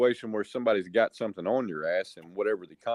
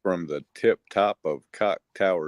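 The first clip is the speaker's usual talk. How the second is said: news anchor. Acted. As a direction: announce the show like a hammy TV anchor. Mock news show opening.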